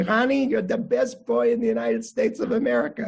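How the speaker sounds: put-on proud grandfather's Russian-accented proclamation. Grandfather holding his grandson in a leg lock, imitated Russian accent. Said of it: "say in his Russian accent".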